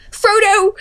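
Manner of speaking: high-pitched cry of dismay; acted hobbit wail; Pippin. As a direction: call out a friend's name, high and distressed. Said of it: "Pippin goes".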